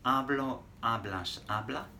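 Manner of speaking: "Hablo, hablas, habla" said clearly for repeating; teacher model. Shown as a demonstration. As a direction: model each form for the class. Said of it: "Repeat that after me".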